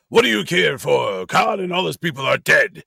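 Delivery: lightly imitated elderly starship captain; Sulu. Co-host quoting the captain from the trailer, light impression. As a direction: do a passable impression of the old captain. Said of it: "I almost sound like him there".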